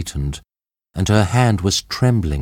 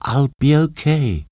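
with a small smile; 7 semitones higher than usual. A narrator's reading. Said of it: "said Jane with a small smile".

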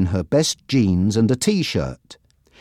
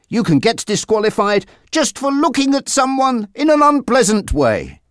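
a hint of a Spanish accent, higher; lightly voiced Mario, Spanish accent; 12 semitones higher than usual. A narrator's reading. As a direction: explain it like a proud young rider, lightly accented. Mario continues.

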